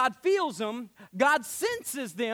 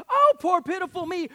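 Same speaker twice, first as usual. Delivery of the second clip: higher, louder whiny moan; mock self-pity; 5 semitones higher, 6 dB louder than usual. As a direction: whine like poor little me.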